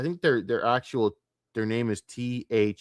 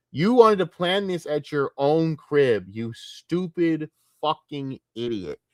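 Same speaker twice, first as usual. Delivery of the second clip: exasperated rant; 5 semitones higher, slower than usual. Real, not acted. Scolding Rich about his address.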